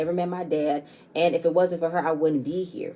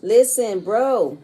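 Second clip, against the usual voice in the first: mock loud; 3 semitones higher, 5 dB louder, much slower than usual. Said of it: "And she's like".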